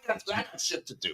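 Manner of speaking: impatient cowboy. Pretend. Voicing cowboy in the photo.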